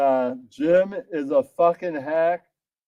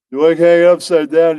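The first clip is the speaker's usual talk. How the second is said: menacing yell; 10 dB louder, faster than usual. Acted. Mobster dangling victim off roof.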